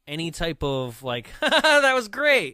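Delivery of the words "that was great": high, loud, drawn-out fake approval; mock delighted reaction. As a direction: laugh it up like a delighted viewer. Mock amused audience reaction.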